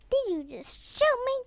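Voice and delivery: gasp, then question in disbelief; startled question at normal volume; taken aback. Real, not acted. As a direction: catch your breath and ask. First reaction to being shot.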